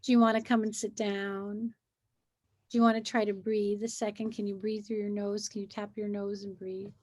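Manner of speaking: soothing, quiet. Retold or imitated. Adult coaxing a crying child to breathe, softly. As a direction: coax the child to breathe, gently. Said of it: "you might say something like".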